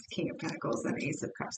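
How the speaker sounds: softly whispered card names. Shown as a demonstration. Tarot reader whispering the drawn cards to herself. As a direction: whisper the cards under your breath. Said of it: "I'm sorry, the Eight of Wands".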